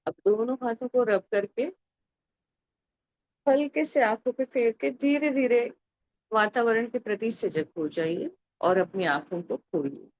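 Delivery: soft, unhurried prayerful instructions; guided meditation. Real, not acted. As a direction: ease the group gently out of meditation. Leads closing of meditation.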